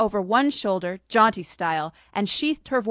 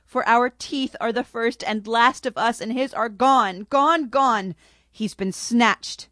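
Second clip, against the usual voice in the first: sobbing lament; 3 semitones higher than usual. Acted. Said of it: "the Cheshire monkey sobbed".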